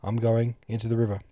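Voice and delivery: burst out. A narrator's reading. Pastor recalls Madame Buddenbrook bursting out in despair. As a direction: cry it out in despair. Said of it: "looked at me and burst out".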